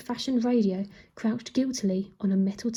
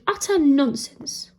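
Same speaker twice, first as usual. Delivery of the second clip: slow, louder indignant protest; 4 semitones higher, 5 dB louder, slower than usual. A narrator's reading. Queen scorning the king's accusation, slow and loud. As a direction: drag out her indignation. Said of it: "she protested".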